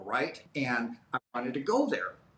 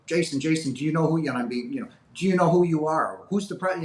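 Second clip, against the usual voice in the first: higher, louder urgent calls; calling him awake; 4 semitones higher, 4 dB louder than usual. Retold or imitated. Hospital staff waking him, urgent calling. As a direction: rouse a patient urgently.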